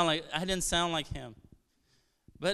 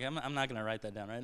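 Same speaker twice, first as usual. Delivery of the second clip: imitating a reluctant listener; 7 semitones lower, 10 dB quieter, faster than usual. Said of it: "And you're like".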